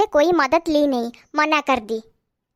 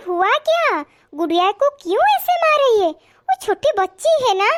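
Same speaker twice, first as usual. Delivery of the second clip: raised voice, demanding why; angry confrontation; 5 semitones higher than usual. Acted. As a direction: challenge her for hitting the child. Confronting sister-in-law angrily. (गुस्से में पूछना)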